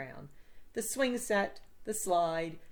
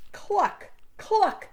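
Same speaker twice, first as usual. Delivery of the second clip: deep rumble; 13 semitones higher, 7 dB louder than usual. A narrator's reading. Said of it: "the thing rumbled in a deep voice".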